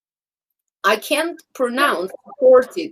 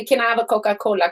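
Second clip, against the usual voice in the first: quick order; much faster than usual. Shown as a demonstration. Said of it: "So now I just say".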